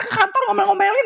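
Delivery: ordinary talk, nothing marked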